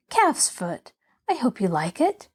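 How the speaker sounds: "I hope you like it" lifting hopefully at the end; rising inflection. Acted. Girl offering jelly to the patient, "like it" rising hopefully. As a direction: make "like it" a tentative, rising near-question. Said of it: "There was a rising inflection in her voice".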